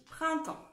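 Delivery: printemps said slowly and clearly as prɛ-tɑ̃; dictated word. Shown as a demonstration. Teacher dictating printemps to her pupils, clear and slow. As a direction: spell out printemps in two clean syllables. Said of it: "Allez-y".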